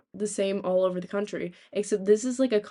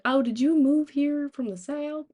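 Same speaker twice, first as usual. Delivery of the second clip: imitated curious classmates; 7 semitones higher, 3 dB louder than usual. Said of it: "enough that people were like".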